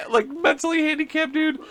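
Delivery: high, breaking into real laughter; talking through laughter. Real, not acted. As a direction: laugh helplessly while finishing the joke. Cracking up at the hissing joke.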